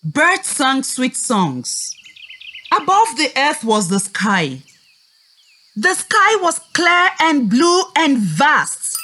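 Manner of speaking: put-on gentle storybook reading for children; story narration. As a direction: tell the tale like reading to little kids.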